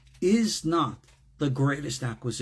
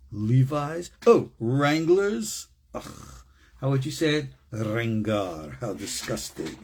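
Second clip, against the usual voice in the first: lightly voiced snooty rich person sneering at jeans; a hint of haughty disdain, drawn-out "ugh"s; snob impression; 4 semitones lower, slower than usual. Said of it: "with an erudite attitude like".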